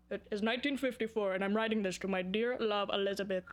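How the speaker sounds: a hint of an old-fashioned formal reading voice; old love letter. Vlogger pretending to read an old love note, lightly formal. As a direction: read it like a yellowed letter from the fifties. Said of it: "An old note from nineteen fifty-four".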